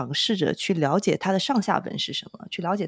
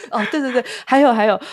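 excited remembering; 7 semitones higher, 9 dB louder, faster than usual. Real, not acted. Sudden remembering.

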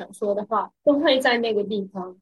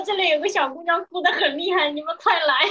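amused retold call; 5 semitones higher than usual. Amused retelling of guard's call.

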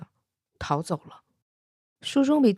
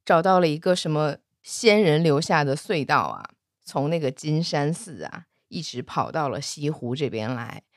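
playing pitiful; 5 semitones lower than usual. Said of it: "许仙在那装可怜".

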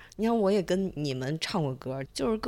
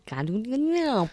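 Martian gibberish; 5 semitones higher than usual. Pretend. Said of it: "录一期火星语播客".

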